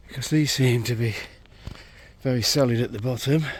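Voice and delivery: out of breath from the climb; panting while talking uphill; heavy breathing. Real, not acted. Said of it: "I have to apologise for the heavy breathing".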